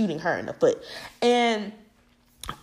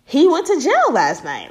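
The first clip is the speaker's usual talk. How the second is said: mom telling; 7 semitones higher, 5 dB louder than usual. Retold or imitated. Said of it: "And she was like".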